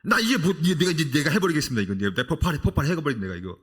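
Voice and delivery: hammed-up impatient believer; acted impatient outburst. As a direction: blurt it out like someone mock-exploding with impatience. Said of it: "우리는 늘 하나님께 이렇게 말합니다".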